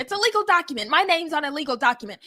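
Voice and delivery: a light Aussie impression; mock Aussie accent. Repeating the co-host's Rhea line in a mock Australian accent. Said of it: "That's British, not Australian".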